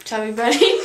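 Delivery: talking through a mouthful; cheeks stuffed full. Real, not acted. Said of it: "we're gonna try and say".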